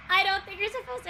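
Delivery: real laughter fading into words; still laughing. Real, not acted. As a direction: say it again while laughing. Repeats while still laughing.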